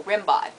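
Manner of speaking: Rimbaud said "rim-bahd"; mistaken pronunciation. Shown as a demonstration. Quoting what everyone thinks, Rimbaud as "rim-bahd". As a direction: say Rimbaud with an "ah" ending. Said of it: "That's what everyone thinks".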